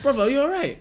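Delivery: stepping in to call him out; retold call-out. Man confronts a driver yelling at a mother, loud call-out.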